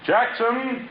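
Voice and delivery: urgent call for the servant. Acted. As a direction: shout his name high across the garden. Calling out for servant.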